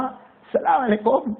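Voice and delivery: high, slow farewell call over the shoulder; boy calling back. Retold or imitated. Boy calls back a farewell to his mother without turning. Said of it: "اور زور سے کہا".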